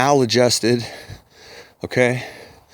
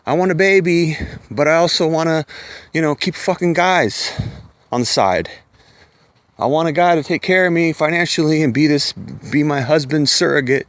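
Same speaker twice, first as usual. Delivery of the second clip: higher, whiny mock woman voice; mocking party woman; 5 semitones higher than usual. Mocking women who want babies and partying, higher and whiny. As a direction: lightly parody a woman wanting it all.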